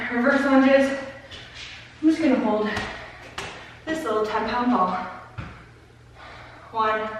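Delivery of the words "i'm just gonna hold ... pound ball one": panting between words; winded, short of air; out of breath. Real, not acted. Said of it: "I'm so out of breath".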